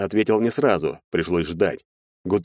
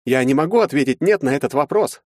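higher, nervous dodging tone; evasive lawyer; 8 semitones higher, 3 dB louder than usual. A narrator's reading. Lawyer to Maxim, evasive and higher. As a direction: wriggle out of the answer. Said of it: "уклончиво ответил адвокат".

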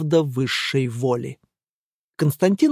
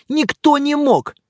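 high, slow, louder insistence; raised voice; 10 semitones higher, 4 dB louder than usual. A narrator's reading. Angelika insists to the men, voice raised. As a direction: insist hotly that nobody could. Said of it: "повысила голос Анжелика".

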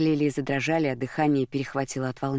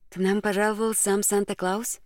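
light teasing question, pitched higher; a higher, joking voice; 6 semitones higher than usual. A narrator's reading. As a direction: toss it off as a playful joke. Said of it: "пошутила она".

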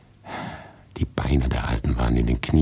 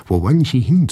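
called out high and louder; 10 semitones higher, 6 dB louder than usual. Acted. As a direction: call after him down the corridor. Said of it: "und rief". (laut gerufen, deutlich höher)

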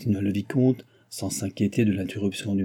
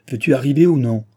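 loud, exasperated demand; through gritted teeth; 3 semitones higher, 7 dB louder than usual. A narrator's reading. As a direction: force it out angrily through clenched teeth. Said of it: "en grinçant des dents".

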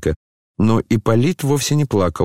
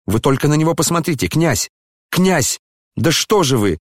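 much higher, fast pleading call; narrated urgent cry to the prince; 7 semitones higher than usual. A narrator's reading. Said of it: "крикнул Коля".

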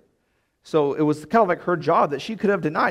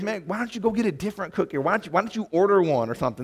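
annoyed inner voice; 4 semitones higher, faster than usual. Retold or imitated. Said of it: "What I wanna say is".

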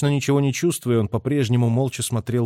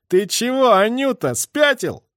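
teasing; 12 semitones higher, 4 dB louder, slower than usual. A narrator's reading. Major mocking friend.

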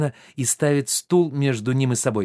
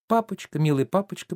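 imitating a daughter's sweet pleading voice, the first word pitched higher; mock-tender coaxing «Папочка»; tender daddy's girl; 5 semitones higher than usual. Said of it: "произнесённые нежным голосом". (нежным голоском изображая дочь)

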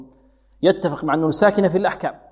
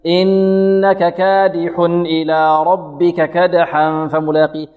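chanted verse with the last vowels snatched short; mistaken, slightly hurried tajweed chant; rushed recitation; much slower than usual. Shown as a demonstration. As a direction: recite it hurrying the final words. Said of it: "أو يسرع فيها".

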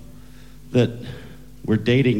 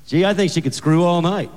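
pitched-up dad gushing on; rising higher on each repeated word; enthusiastic father; 8 semitones higher than usual. Acted. Father tells boyfriend about his daughter, cheerfully oblivious. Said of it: "And he goes".

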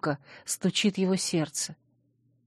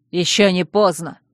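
hard retort; 5 dB louder than usual. Acted. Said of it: "жёстко парировал Чейз".

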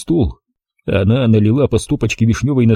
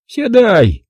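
commanding; 11 semitones higher than usual. Acted. Granny ordering the guest to sit, a commanding high order. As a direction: bark the order like a bossy granny. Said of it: "приказала баба Люба".

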